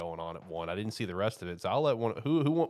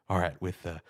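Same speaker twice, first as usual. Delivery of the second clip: low, hushed pick announcement; low announcer voice; 5 semitones lower, 7 dB quieter than usual. Retold or imitated. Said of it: "I started to talk very low".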